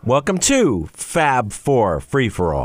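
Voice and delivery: slow intro that drops the word the before Fab; a slow show opener with the article left out; intro missing the. Shown as a demonstration. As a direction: read it as Welcome to Fab Four, no the. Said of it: "No, I'm sorry. Put the the in".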